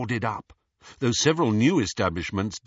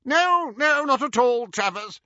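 quickly; 5 dB louder than usual. A narrator's reading. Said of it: "said Hermione quickly".

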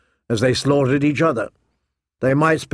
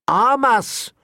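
urgent demand; 10 semitones higher than usual. A narrator's reading. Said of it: "Tyrion sprang to his feet".

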